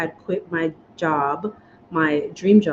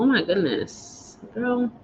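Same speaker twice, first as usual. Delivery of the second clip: soft, teary aside; breathing through real tears; a choked-up murmur to herself; emotional; 4 semitones higher, 6 dB quieter, slower than usual. Real, not acted. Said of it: "I don't know why I'm so emotional".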